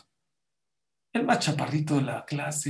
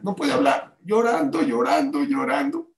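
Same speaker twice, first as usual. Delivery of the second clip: emphatic narration; 8 semitones higher, 4 dB louder than usual. A narrator's reading. Dramatises father crying at microphone.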